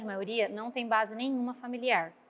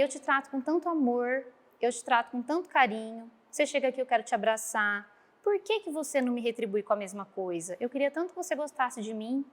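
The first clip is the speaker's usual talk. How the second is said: put-on gentle, hurt appeal to a child; tender plea. Teacher pleading with the boy.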